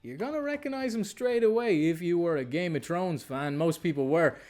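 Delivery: upbeat presenter opening a film show; presenter-style welcome with lifted key phrases; show intro. Acted. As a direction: introduce today's guest to the viewers, punchy openings. Host reads show intro.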